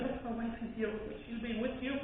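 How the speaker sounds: hushed retold reassurance; reassuring. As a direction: quietly offer someone company. Reassuring the crying woman.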